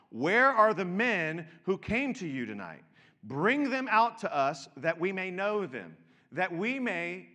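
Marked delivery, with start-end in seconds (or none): 0.1-5.9 calling out. Acted. Crowd calling out to Lot.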